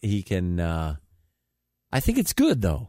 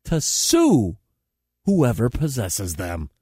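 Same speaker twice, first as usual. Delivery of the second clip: comedy newscast with punchy phrasing; mock news read; 4 semitones higher than usual. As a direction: read it like a satirical anchor. Reads mock news items.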